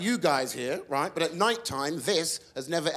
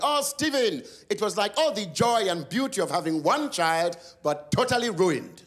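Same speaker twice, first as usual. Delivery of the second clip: mum voice; 3 semitones higher than usual. Retold or imitated. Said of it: "She went".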